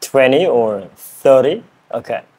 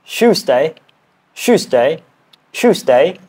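higher British "Tuesday", starting like "shoos"; British accent attempt; 4 semitones higher, slower than usual. Shown as a demonstration. Learner on the word they do best, British accent attempt. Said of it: "This one I think I can do the best".

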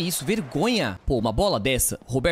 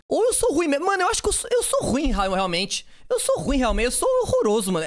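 mock despair; 7 semitones higher than usual. Real, not acted. Mock self-deprecation.

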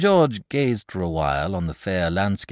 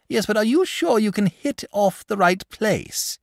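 anxiously; 8 dB louder than usual. A narrator's reading. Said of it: "asked the dragon anxiously".

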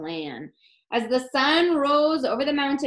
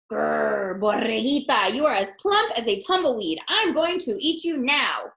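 louder growl, hungry and sure; growling coyote; 4 dB louder than usual. Acted. Coyote threatening the plump lamb, growling. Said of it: "He growled".

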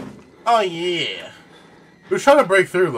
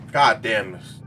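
slow, breathless sigh; exhausted sigh; 3 semitones lower, much slower than usual. Real, not acted. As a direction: let it out slowly, drained. After the chase.

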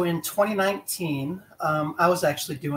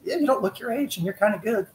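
imitating the coach; 7 semitones higher than usual. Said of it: "He's like".

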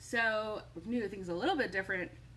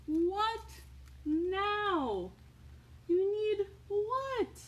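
high, incredulous what; mock surprised parent; 12 semitones higher, much slower than usual. Parent answering robots yet again, mock surprised. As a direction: ask it in mock disbelief.

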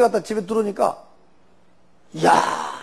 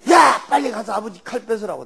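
urgent call to grab the knife; mother's shout. Retold or imitated. Mother yelling at her son to seize the father's knife, shouting. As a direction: yell at the son to go take the knife. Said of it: "나보다".

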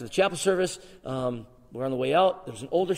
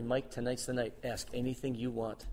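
softer, calm and hushed; hushed divine voice; 3 semitones lower, 9 dB quieter than usual. Retold or imitated. God speaking to young Mike, hushed. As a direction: speak it like a quiet inner voice.

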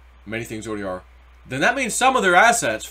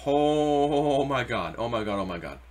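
stunned; slower than usual. Retold or imitated. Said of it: "And I go".

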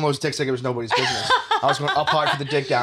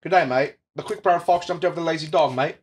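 mock Australian accent; 3 semitones higher, 4 dB louder than usual. Shown as a demonstration. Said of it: "let me get in my Australian".

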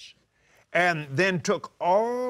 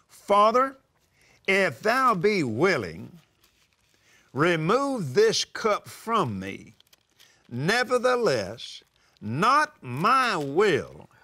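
slow, reverent plea to the Father; a hushed, pleading prayer of surrender; solemn prayer; slower than usual. Acted. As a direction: pray it slowly and earnestly. Jesus praying in Gethsemane.

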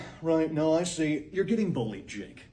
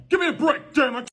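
high, loud frustrated yell; exasperated outburst; 11 semitones higher, 8 dB louder than usual. Acted. Principal confessing to the student, yelling in exasperation. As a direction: burst out in exasperation.

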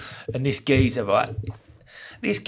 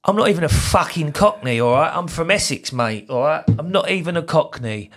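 indignant; 2 semitones higher than usual. Real, not acted. Rebutting comment mocking his accent.

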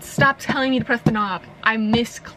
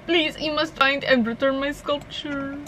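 slow, drawn-out French accent attempt; failed French accent; 3 semitones higher than usual. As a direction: plead slowly in a bad French accent. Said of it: "don't think I'm doing a French accent".

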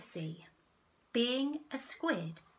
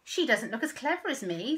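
jealous dolphin; 4 semitones higher, 7 dB louder than usual. Acted. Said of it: "said a dolphin".

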